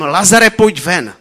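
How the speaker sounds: loud, drawn-out command; mighty call. A narrator's reading. Preacher reading Jesus calling Lazarus out, mighty call. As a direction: call it out slowly with full force. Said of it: "zvolal mocným hlasem".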